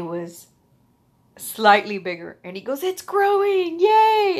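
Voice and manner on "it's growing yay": high, louder, delighted announcement; cheerful doctor. Retold or imitated. Doctor telling the patient her bone is growing, high cheerful. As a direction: play the doctor thrilled with good news.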